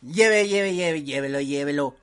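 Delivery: loud street vendor hawking wares; hyped fairground barker. Retold or imitated. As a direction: call out like a metro seller. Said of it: "Así de". (vendedor ambulante pregonando)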